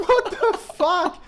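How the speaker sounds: slow, high drawn-out what the fuck; mock disbelief. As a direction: stretch it out in hammed-up shock. Retold shock at friends' upgrade.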